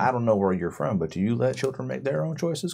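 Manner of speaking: lightly voiced rural elder, wry; a folksy NPC, dryly understated; drawling swamp folk NPC. The NPC scolds the stranger.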